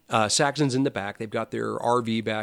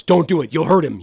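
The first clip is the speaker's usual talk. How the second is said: louder, higher mock warning from the wife; 5 semitones higher, 9 dB louder than usual. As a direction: play the wife half-laughing, warning him off. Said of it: "And my wife goes".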